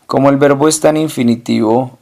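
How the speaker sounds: ordinary talk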